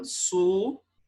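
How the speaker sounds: "subitem" as su... bi... tem, long pauses; correct syllable split. Shown as a demonstration. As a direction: sound out "subitem" in three separate syllables. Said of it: "Olha a divisão correta".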